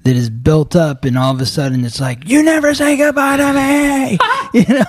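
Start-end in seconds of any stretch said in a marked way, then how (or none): 2.3-4.2 high, whining accusation; whiny mock complaint. Friend mocking a partner's complaint, in a high whine. 4.2-4.8 laughing. Real, not acted. Laughing after mock whine.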